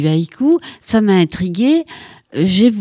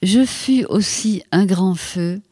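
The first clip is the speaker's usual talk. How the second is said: slow, hushed haiku reading with long pauses; poem reading; slower than usual. Acted. Poet reading her autumn haiku to the host, slow and hushed. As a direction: let each line settle, slowly.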